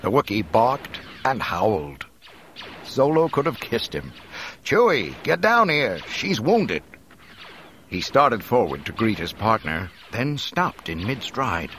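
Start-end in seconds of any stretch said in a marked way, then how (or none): 4.6-6.8 high, loud shout up to a friend; urgent calling out. A narrator's reading. Han to Chewie atop the walker, urgent call.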